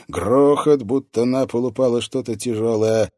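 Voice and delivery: ordinary delivery, nothing marked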